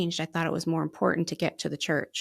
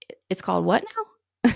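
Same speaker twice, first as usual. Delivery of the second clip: baffled; 5 dB louder than usual. Retold or imitated. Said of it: "And Dan was like".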